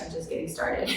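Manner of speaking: breathless, under-the-breath groan of realization; whispered dismay. Retold or imitated. New mother hearing her baby cry, whispering dismay. Baby starts crying after birth.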